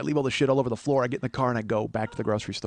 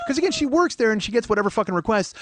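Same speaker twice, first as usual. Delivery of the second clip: high, loud, excited storytelling; worked-up shouting; 11 semitones higher, 7 dB louder than usual. Real, not acted. Man explains his cake-counter blunder, worked-up shout. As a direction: tell it loudly, carried away by the absurdity.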